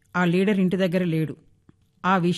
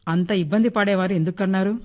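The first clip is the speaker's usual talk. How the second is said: careless. Acted. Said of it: "నిర్లక్ష్యంగా అడిగాడు".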